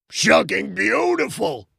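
high, slow excited cry; a lightly voiced happy yell; big linebacker crying happily at the wedding, mild yell; mock scream. A narrator's reading. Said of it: "John screamed".

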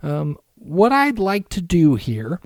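a hint of a smarmy front office guy; mock Bulls GM. Pitching a trade to the Wolves GM in a put-on smooth GM voice. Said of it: "Why does the Chicago G M sound like I wanna kick his ass?".

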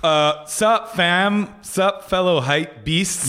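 lightly voiced trendy kid greeting; a hint of a slow hype-beast drawl; mock young hipster. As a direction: play a try-hard young dude. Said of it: "you come in on a bird scooter".

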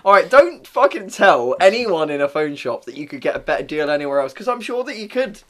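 loud, emphatic telling-off; exasperated rant. Pretend. Phone shop worker warning customers about deals, loudly exasperated.

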